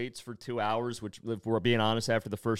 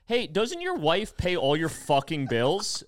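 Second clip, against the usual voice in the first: retorting; 5 semitones higher, 4 dB louder, slower than usual. Retold or imitated. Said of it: "I'm like".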